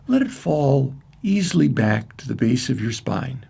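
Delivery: measured meditation guide with long pauses; spacious, evenly paced guided imagery. Acted. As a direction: lead listeners gently through a visualization, unhurried. Leads a guided centering meditation.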